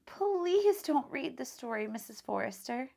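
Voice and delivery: pleading. Acted. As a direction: beg her not to read it. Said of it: "Tom pleaded".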